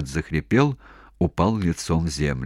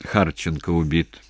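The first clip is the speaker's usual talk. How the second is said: dejected; 2 semitones lower than usual. Acted. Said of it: "сказал удручённо".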